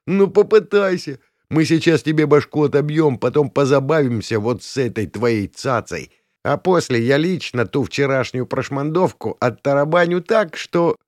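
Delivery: high, cocky threatening voice; jeering gang leader. A narrator's reading. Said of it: "рассмеялся царёк".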